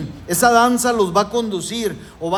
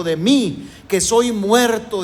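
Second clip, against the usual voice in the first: lament; 3 semitones higher, 3 dB louder, slower than usual. Retold or imitated. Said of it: "Levantó ayes de dolor".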